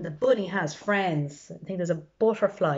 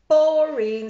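bored chorus; 8 semitones higher, 8 dB louder than usual. Acted. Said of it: "said everybody".

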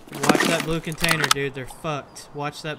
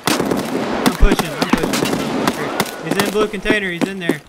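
urgent shout; 3 semitones higher, 5 dB louder, slower than usual. Real, not acted. Pushing the enemy.

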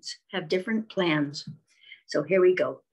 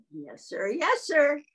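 hen answers; 6 semitones higher, slower than usual. Acted.

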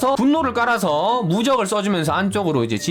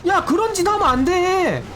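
alarmed shout; 12 semitones higher than usual. Real, not acted. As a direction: shout at the runaway troop. Wall breaker jumps wrongly.

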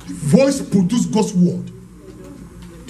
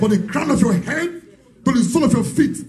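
healing prayer command; 4 semitones higher than usual. Real, not acted.

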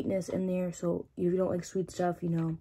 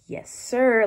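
excited cheer; 5 semitones higher, 8 dB louder than usual. Retold or imitated. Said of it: "I look down and I'm like".

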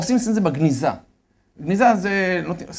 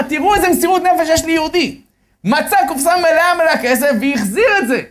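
higher and louder, marvelling on air; excited radio telling; 11 semitones higher, 6 dB louder than usual. Retold or imitated. Rabbi on the radio marvels at the devotion, excitedly. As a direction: proclaim it like a thrilled radio host. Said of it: "הוא סיפר את זה בשידור".

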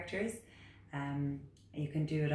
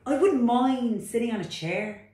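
high, loud, protesting frog voice; reluctant frog; 8 semitones higher, 8 dB louder than usual. Acted. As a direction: whine back like a stubborn little frog. Frog character.

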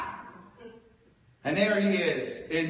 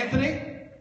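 mock solemn bargain; 6 semitones higher than usual. Comic mock-negotiating with drunk friend, hammed-up. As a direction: play it grand and sincere.

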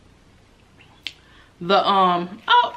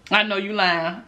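teasing through a laugh; laughing tease. Retold or imitated. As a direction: laugh while calling out the lie. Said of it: "I was saying".

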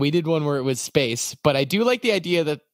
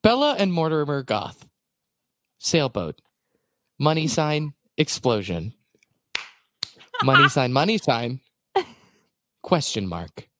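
Sarah Koenig; 3 semitones lower than usual. Acted. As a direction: narrate Sims clues like Serial. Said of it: "I'm Sarah Koenig".

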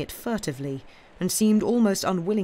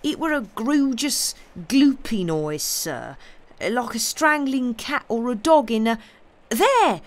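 high, loud rustic servant crying out in fear; panicked country lad pointing at a ghostly sound; frightened servant hearing a ghost; terrified servant; 8 semitones higher, 5 dB louder than usual. Acted. Servant hears ghost noise.

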